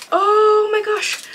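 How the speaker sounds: high, slow, stretched exclamation; awed delight. Real, not acted. Unboxer discovers a set of small prints, awed delight. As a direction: draw it out in high-pitched wonder.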